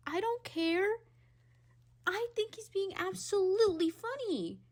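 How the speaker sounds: high, loud defiant outburst. Real, not acted. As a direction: shout it out, not caring.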